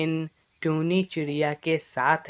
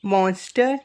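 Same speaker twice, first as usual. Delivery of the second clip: higher, emphatic mother character; alarmed mother; 6 semitones higher, 4 dB louder than usual. Acted. Mother believes her child and will warn everyone, alarmed. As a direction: indignantly defend the child, pitched up.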